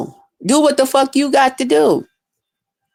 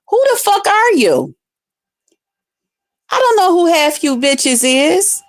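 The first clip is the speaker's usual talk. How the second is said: higher, exasperated tirade at a stranger; indignant rant; 4 semitones higher than usual. Retold or imitated. Streamer to a hater in chat, indignant and higher. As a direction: vent at someone you don't even know.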